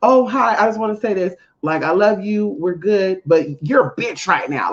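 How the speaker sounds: fake nice. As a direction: greet them sweetly before the insult. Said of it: "I can't be fake like that".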